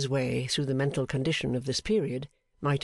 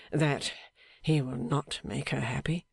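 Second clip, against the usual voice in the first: in pain. Acted. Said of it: "almost in the tone of a man in pain".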